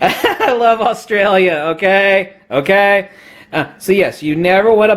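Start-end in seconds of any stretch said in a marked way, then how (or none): 0.0-3.1 laughing, slow mock Aussie; Australian accent. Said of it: "I might be butchering the Australian accent".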